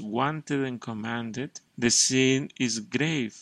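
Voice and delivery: measured solemn reading from the book; reading aloud. Acted. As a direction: read it out as holy text, deliberate.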